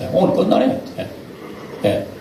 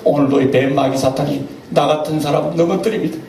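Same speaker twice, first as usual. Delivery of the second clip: a humble confessing prayer, pitched up; pleading prayer; 8 semitones higher than usual. Pretend. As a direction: plead before God, lamenting. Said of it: "기도할 수밖에".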